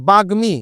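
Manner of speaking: বাগ্মী with ম said directly; বাগ্মী: clear গ then ম; pronunciation demo. Shown as a demonstration. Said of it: "এটা কি উচ্চারণ হবে". (বাগ্মী স্পষ্ট উচ্চারণ)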